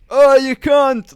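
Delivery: slow, high mock yell at the stage; heckling shout. Roofers heckling the host on stage, drawn-out mock shout. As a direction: heckle like a drunk lad. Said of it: "just shouting at him".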